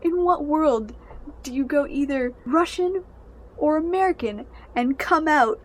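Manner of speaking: high, loud disbelieving question peaking on British; incredulous. Real, not acted. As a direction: demand it, baffled and appalled.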